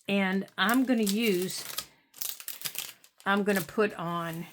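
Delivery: hiccuping mid-sentence; with hiccups. Real, not acted. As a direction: voice caught by hiccups. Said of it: "I'm getting the hiccups".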